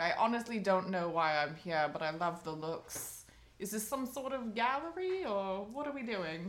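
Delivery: put-on vague, languid old star; tipsy grande dame. Old star unsure why she's at the club, tipsily baffled. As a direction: play a mildly bewildered champagne diva. Same played star, confused.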